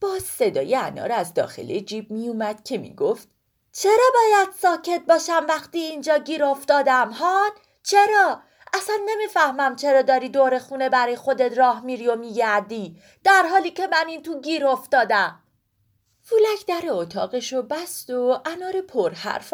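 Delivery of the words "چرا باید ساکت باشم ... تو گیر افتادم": high, complaining little pomegranate voice; trapped talking pomegranate. Acted. Pomegranate stuck in a pocket complains to Woolak, high and whiny. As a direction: whine about being stuck in the pocket.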